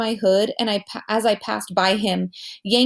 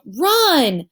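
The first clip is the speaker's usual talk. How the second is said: a sharp, louder cry; yelled; 5 semitones higher, 4 dB louder than usual. A narrator's reading. Boy pulling him away yells to flee, loud. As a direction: yell it as the chase starts.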